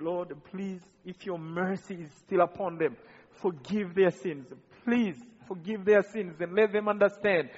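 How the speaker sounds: a hushed, sincere plea for mercy. Retold or imitated. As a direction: plead gently with God. Prays for the killers.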